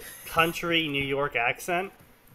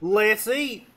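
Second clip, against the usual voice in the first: high, louder, hearty invitation; genial; 8 semitones higher, 6 dB louder than usual. A narrator's reading. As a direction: invite everyone to eat genially. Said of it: "Dumbledore pronounced genially".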